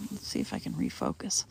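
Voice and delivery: hiccuping mid-sentence; words broken by a hiccup. Real, not acted. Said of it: "I got hiccups".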